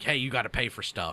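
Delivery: ordinary delivery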